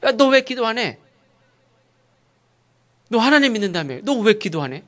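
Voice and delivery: high-pitched, pressing reproach; acted scolding from an unbelieving captain; rebuking. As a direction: call them out indignantly. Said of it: "이방인한테 책망을 받아".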